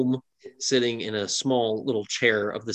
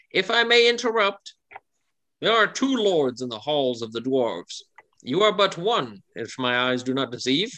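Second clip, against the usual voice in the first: gnome lady. Acted. Orange gnome lady interrupts the dwarf lord, lightly voiced. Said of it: "a lady, she leans forward and she says".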